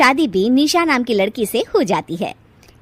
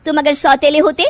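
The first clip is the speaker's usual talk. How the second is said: loud, high tearful protest; angry ultimatum; 7 semitones higher, 6 dB louder than usual. Acted. Kirti threatens to go to her parents, loud and high. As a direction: lay down the law loudly.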